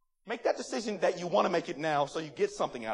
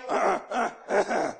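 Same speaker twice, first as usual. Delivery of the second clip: coughing on a bug. Real, not acted. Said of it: "Swallowed a bug or something".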